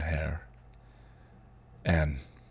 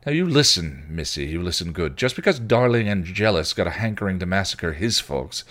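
put-on louder, a growled warning to the girl; snarled; 4 semitones higher, 5 dB louder than usual. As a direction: put her in her place with a snarl. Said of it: "he snarled".

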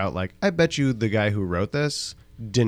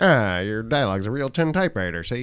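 gangster voice. Retold or imitated. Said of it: "a little more Jimmy Cagney".

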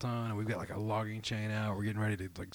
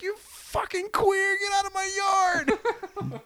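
high, slow, loud mock shout of an angry woman; imitated yelling; 5 dB louder, slower than usual. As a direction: yell it like the furious neighbor. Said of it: "she's like".

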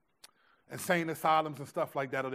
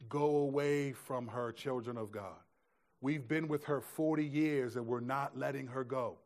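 demonic voice; 3 semitones lower, 5 dB quieter than usual. Retold or imitated. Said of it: "in this demonic voice".

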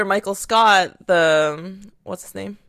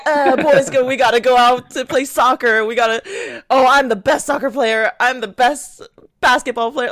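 lightly mocked boastful boss; annoying boss; 3 semitones higher than usual. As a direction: brag like an obnoxious boss, mildly hammed-up. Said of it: "He's the most annoying boss".

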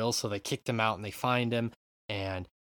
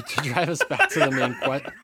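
talking through real laughter, louder; laughing; 5 semitones higher, 4 dB louder than usual. Real, not acted. Host steering back to the main question, laughing. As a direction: try to carry on while cracking up. Cracks up at co-host's joke.

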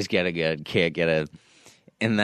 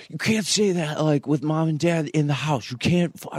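mock angry; 8 semitones higher than usual. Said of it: "Ben got super mad at me".

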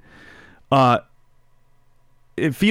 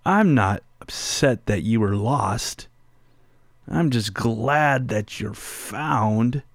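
tender reassurance; 3 dB quieter, slower than usual. Retold or imitated. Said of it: "I said to my daughter".

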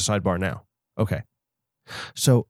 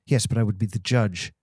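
put-on English accent; 3 semitones lower, 3 dB quieter than usual. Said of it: "like, an English accent?".

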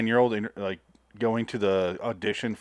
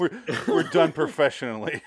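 polite British; 4 semitones higher than usual. Retold or imitated. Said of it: "he switches back to British polite".

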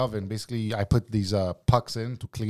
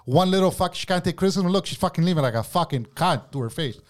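heated, higher-pitched tirade; retold angry rant; 4 semitones higher than usual. Worker ranting to his boss about her, retold anger. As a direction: re-enact ranting past the boss's objection.

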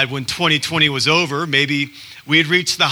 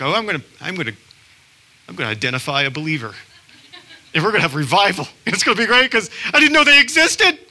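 excited inner voice; 5 semitones higher, much faster than usual. Retold or imitated. Heading out to find a believer, giddy and high. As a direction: hype yourself up. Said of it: "I was like".

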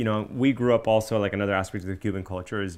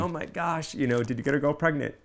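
higher, faster mock Cuban mom accent; imitating a Cuban mom's accent, voice pitched up; 7 semitones higher than usual. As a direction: put on a Cuban mother's accent. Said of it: "I use the Cuban accent".

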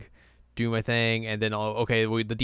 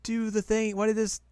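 high whiny Tsubaki; 11 semitones higher than usual. Retold or imitated. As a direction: whine like a sore loser witch. Voicing defeated Tsubaki.

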